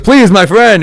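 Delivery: high-pitched mock pleading drunk; drunk guy. Comic mimicking a drunk guy in corner stores, high mock plea. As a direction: imitate a drunk's wheedling plea. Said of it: "and the drunk guy".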